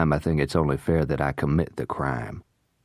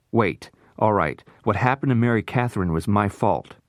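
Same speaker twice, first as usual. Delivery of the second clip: desperate confession; 5 semitones higher than usual. Acted. Noah desperately giving in.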